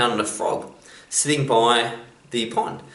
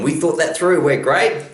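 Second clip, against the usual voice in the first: louder, higher self-congratulating voice; the ego patting itself on the back; smug brain; 7 semitones higher, 6 dB louder, slower than usual. Retold or imitated. The thinking mind claiming credit, loud and smug.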